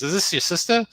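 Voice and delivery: put-on light girlish question; quoting the girl. Retelling the show, the girl asks a mild question. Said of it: "and she goes".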